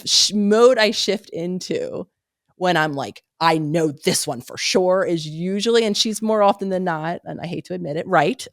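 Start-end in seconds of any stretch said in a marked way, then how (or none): 3.4-5.0 slow, deliberate, sure of himself; emphatic certainty. Retold or imitated. Telling his partner a fact, slow and emphatic. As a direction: state it slowly as settled fact. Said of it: "this particular way of being emphatic".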